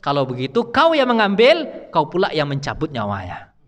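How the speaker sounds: God gives the task to the angel; divine command. Retold or imitated. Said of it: "Apa kata Allah setelah itu?". (perintah Allah, suara memerintah)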